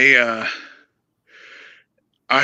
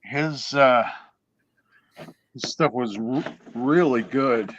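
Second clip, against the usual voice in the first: talking through hiccups; words broken by hiccups; hiccuping. Real, not acted. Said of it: "I keep hiccuping".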